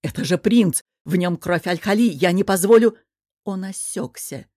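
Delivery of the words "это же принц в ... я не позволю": loud furious protest; rising to a shout of refusal; outraged shout. Acted. Outraged uncle defends prince. (гневный крик)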